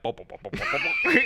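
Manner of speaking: mock French as repeated popping syllables; mocking French babble. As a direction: make fun of French with bouncy nonsense, half laughing. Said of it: "making fun of them".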